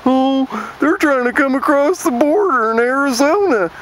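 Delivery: high whiny redneck parody; mock panicky redneck. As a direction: whine it like a scared hillbilly. Mocking anti-immigrant rednecks.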